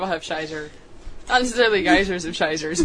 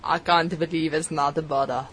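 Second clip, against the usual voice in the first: ad announcer voice; 5 semitones lower, slower than usual. Pretend. Ad voiceover parody.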